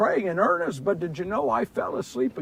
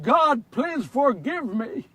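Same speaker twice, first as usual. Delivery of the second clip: pleading prayer; 3 semitones higher, slower than usual. Acted. Praying for forgiveness.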